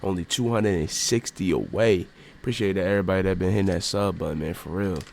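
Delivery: tissue up one nostril. Real, not acted. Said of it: "as y'all can see by the tissue in my nose".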